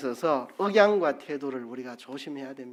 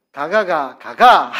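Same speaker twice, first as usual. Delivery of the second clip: louder Gyeongsang intonation "가가, 가가"; 12 dB louder, slower than usual. Shown as a demonstration. Preacher demonstrating dialect, a loud Gyeongsang "가가". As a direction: sing the "가가" tones the Gyeongsang way. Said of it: "제가 해볼게요".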